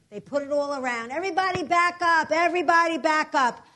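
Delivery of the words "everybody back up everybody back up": loud, firm command to the crowd; police order. Retold or imitated. Police tape off the scene and push the crowd back, loud command. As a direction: bark like a cop holding a line.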